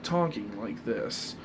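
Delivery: slow, low light British accent; just shift toward a London accent. Shown as a demonstration. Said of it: "focus on talking like this without doing the accent".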